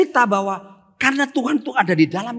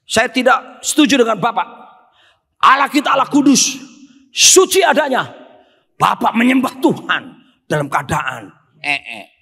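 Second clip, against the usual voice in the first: objecting participant; 3 semitones higher, 5 dB louder than usual. Retold or imitated. Participant loudly objecting to the preacher, indignant. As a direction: protest like a scandalised churchgoer. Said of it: "ada satu peserta".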